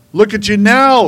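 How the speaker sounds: high, loud jeering shout; mocking yell. Crowd yelling scornfully at Jesus on the cross. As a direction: yell it in his face with scorn. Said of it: "they yelled at him".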